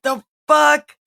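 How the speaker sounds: "The fuck?" yelled high and loud; outraged retort. Retold or imitated. Athaliah sees the crowning, loud mock outburst. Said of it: "And she's like".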